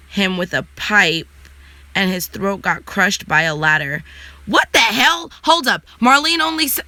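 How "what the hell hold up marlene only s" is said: shocked outburst. Real, not acted. Reacting to a gruesome show death for viewers, shocked and higher. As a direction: blurt it out, caught off guard.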